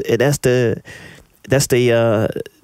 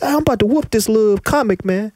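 crowd member voice; 10 semitones higher than usual. Retold or imitated. Imitating crowd threatening him.

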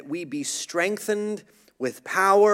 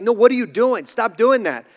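sharp, loud, high coach scold; 6 semitones higher, 6 dB louder than usual. Retold or imitated. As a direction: bark it like an exasperated coach. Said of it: "the coach would be like".

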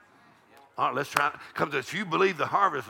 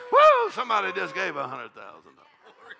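hollering; 4 semitones higher, 5 dB louder than usual. Pretend. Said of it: "hollering about it".

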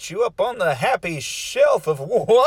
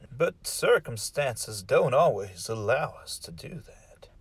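softer, ominous storyteller voice; story intro narration; 3 semitones lower, 7 dB quieter than usual. Acted. Host sets up the story, softening into an ominous hush. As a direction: lead into the tale, ending hushed.

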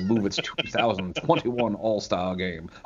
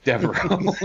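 excited shout; 9 semitones higher than usual. Real, not acted. Shouting out the made-up name.

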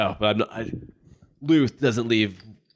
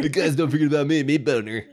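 inner voice character; 4 semitones higher than usual. Acted. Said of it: "He does all these voices in his head".

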